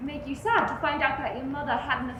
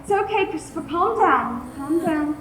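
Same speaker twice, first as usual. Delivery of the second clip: soothing; 3 dB louder than usual. Acted. Mother soothing panicked son.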